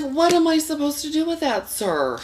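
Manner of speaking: very high, loud disbelieving squeal; incredulous squeal. Retold or imitated. Quoting his reaction to the date's tiny penis, in a high incredulous squeal. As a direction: shriek it in comic disbelief.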